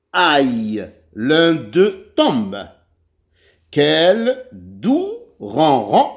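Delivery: put-on measured, deliberate reading to young learners; slow read-aloud for pupils. Teacher reading the kitten text to pupils, slow and deliberate. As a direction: read it out slowly, giving each phrase room.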